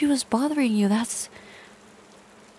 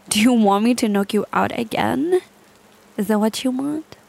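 threat; 4 dB louder than usual. Acted. Threatening captive.

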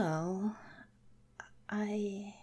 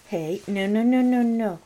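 high squealing laughter, begging to stop; shrieking and giggling while tickled; being tickled; 11 semitones higher, 7 dB louder than usual. Real, not acted. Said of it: "No more tickling me".

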